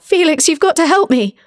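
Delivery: high, loud begging cry; desperate plea. Acted. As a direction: plead to be rescued. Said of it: "the man called out".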